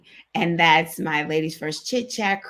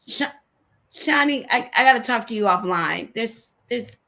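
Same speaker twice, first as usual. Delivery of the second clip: close to tears; 3 semitones higher, 4 dB louder than usual. Real, not acted. Host telling a friend on air, about to cry. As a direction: fight back tears as you speak to her. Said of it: "I'm about to cry".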